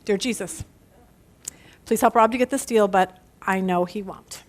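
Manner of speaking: doubtful prayer. Acted. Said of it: "Here's my prayer".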